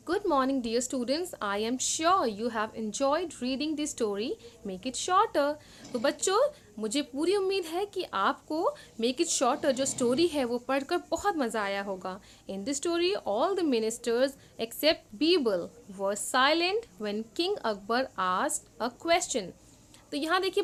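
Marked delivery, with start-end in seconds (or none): 0.1-5.5 slow, deliberate reading of English text; slow worksheet reading. Acted. Teacher reading the worksheet slowly to second graders. 12.5-19.5 slow, deliberate reading of English text; slow worksheet reading. Acted. Teacher reading the worksheet slowly to second graders.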